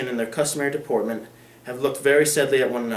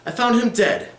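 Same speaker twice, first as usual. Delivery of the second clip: found punched higher and louder; blunt reveal; 9 semitones higher, 4 dB louder than usual. Acted. Lawyer revealing the death to Lady Dedlock, pointed stress. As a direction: drop the news flatly on found.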